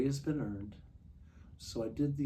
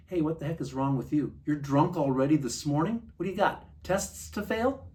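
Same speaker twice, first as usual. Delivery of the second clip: raised, mocking scold from friends; 3 semitones higher, 6 dB louder than usual. Dorm friends tease dreamer for drinking, mock scolding voice. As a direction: needle him like a friend would, higher. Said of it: "they're saying".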